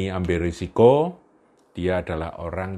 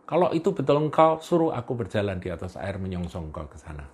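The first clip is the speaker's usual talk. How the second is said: eager shout; faster than usual. Acted. Peter blurts to Jesus on the water, eager and fast. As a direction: blurt it out on impulse. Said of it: "dia langsung teriak".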